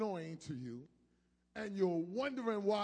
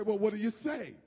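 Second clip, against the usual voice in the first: put-on parent prompting child; 6 dB louder than usual. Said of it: "we take it back and say".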